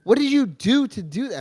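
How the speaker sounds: mock-exasperated questioning, pitched high; Michelle. Partner interrogating him about the toilet mess, mock pissed-off. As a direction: imitate an annoyed partner demanding an explanation. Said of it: "Michelle will get pissed at me".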